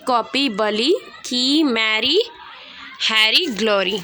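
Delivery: careful word-list reading for repetition; slow model reading. Shown as a demonstration. Teacher reading words slowly for class to repeat. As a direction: read each word clearly for students to repeat. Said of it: "सुनिए, repeat करिए।".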